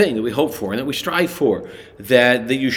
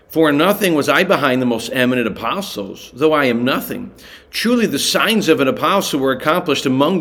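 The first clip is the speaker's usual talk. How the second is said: raised, earnest reading of the passage; lifted Bible reading voice; scripture reading; 3 semitones higher than usual. Acted. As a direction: read the verses out to the listeners with weight. Reads Second Corinthians passage aloud.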